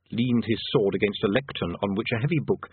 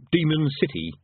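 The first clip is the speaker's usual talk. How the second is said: hopeful; 7 semitones higher than usual. Acted. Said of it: "he said hopefully".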